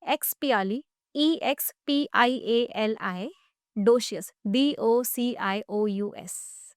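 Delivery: slow spelling, chunk by chunk; broken into chunks. Shown as a demonstration. Teacher helps student remember a long spelling, slow chunked spelling. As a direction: say each piece, then spell it slowly letter by letter. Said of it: "break, break करके जब आप बोलोगे".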